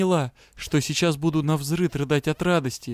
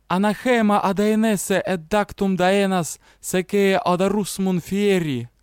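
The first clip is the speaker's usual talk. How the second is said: vengeful incantation; 4 semitones higher than usual. Acted. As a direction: chant it with spite. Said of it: "мстительно добавила формулу".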